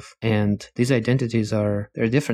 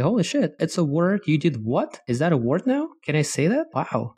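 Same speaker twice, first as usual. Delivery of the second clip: mock-astonished exclamations, pitched higher; retold amazement; 6 semitones higher than usual. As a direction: replay your own shock at a new word. Retelling own shock at new words.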